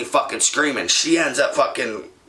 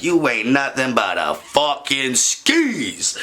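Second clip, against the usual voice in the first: in her face; slower than usual. Retold or imitated. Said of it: "I get up in her face".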